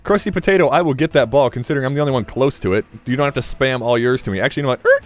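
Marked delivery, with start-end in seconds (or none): 4.9-5.0 short imitated screech of brakes; vocal car-brake squeal; brake noise. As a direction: make a quick skidding "er".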